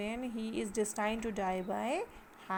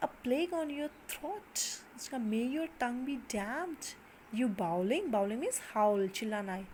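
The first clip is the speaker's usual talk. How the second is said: cursing. Acted. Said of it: "he's cursing him".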